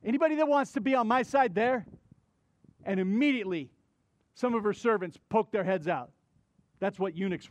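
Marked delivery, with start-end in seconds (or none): 0.0-1.8 yelling up. Acted. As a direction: rush the question out as a yell. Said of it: "He yells up".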